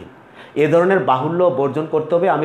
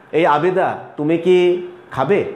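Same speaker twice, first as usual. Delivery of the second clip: teacher asking a student; slower than usual. Shown as a demonstration. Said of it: "আমি যখন তোমাকে জিজ্ঞেস করব".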